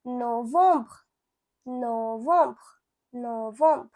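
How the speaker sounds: novembre as "no-vombr", nasal second vowel; French pronunciation. Shown as a demonstration. Teacher showing learners November in French, careful French novembre. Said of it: "You can say".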